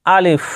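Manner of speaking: "আলিফ" short, with no stretched vowel; টান ছাড়া. Shown as a demonstration. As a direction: say "আলিফ" briskly, without dragging it. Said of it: "এখানে টানবেন না". ("আলিফ" না টেনে ছোট করে)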